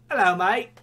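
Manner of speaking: a terrible British impression; bad British accent. Shown as a demonstration. Host showing how bad his British accent is, bad British. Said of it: "I'm terrible at accents".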